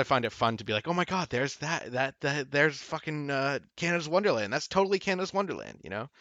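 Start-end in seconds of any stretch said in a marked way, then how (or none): 0.9-5.8 higher-pitched excited recognition. Retold or imitated. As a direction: gush like a fan spotting a familiar landmark. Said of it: "I get excited because I'm like".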